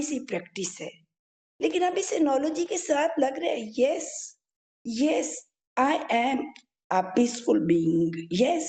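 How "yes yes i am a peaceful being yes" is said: lightly voiced inner affirmation. Shown as a demonstration. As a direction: say it slowly like a mantra. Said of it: "मैंने वो जो visualise करना शुरू किया था ना".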